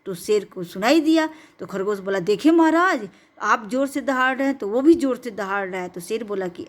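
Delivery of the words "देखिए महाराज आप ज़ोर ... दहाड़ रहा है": eager rabbit. Acted. Rabbit eagerly persuading the lion.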